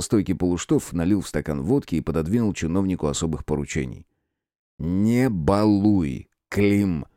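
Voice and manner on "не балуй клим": very slow, each word set apart; measured and deliberate. Acted. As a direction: space the words out, a firm warning. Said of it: "с расстановкой произнёс Терентьев".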